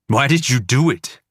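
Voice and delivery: a breaking, pleading question. A narrator's reading. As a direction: voice cracking high and strained. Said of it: "My voice breaks".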